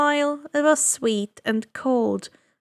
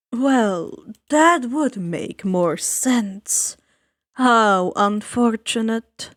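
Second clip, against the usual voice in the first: suave ferryman; slower than usual. Acted. Ferryman of the dead greeting the boy, slow and silky. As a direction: savor each word like a sly host. Charon drily.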